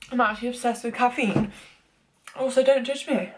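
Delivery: breathy, panting between phrases; climbing stairs. Real, not acted. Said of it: "Out of breath from the stairs".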